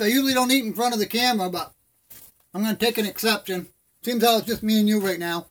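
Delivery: talking with no teeth while chewing; toothless. Real, not acted. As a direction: gum the words, mouth full, no teeth. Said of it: "I ain't got no teeth".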